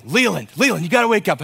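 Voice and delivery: hammed-up alarm; urgent wake-up. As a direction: rouse him with fake panic. Waking son, faking alarm.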